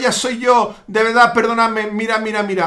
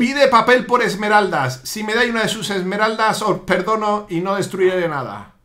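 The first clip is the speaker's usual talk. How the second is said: low villain voice sinking lower; villain cat bargaining; 4 semitones lower than usual. Acted. (gato villano negociando, voz grave)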